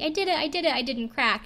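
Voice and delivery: high, bouncy I-did-it squeal; excited celebration. Retold or imitated. Contestant celebrating backstage, giddy high squeal. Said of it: "jumps around and says".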